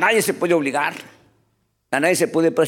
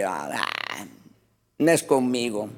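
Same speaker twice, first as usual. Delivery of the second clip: mocking laugh; 7 semitones lower, 5 dB quieter, slower than usual. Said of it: "el impío riéndose".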